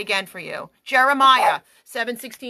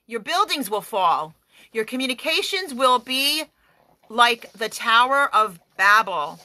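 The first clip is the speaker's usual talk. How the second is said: firm preaching cadence; prayer decree. Acted. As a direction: command it like a decree.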